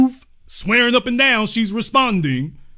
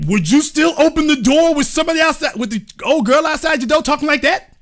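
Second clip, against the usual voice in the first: usual speaking voice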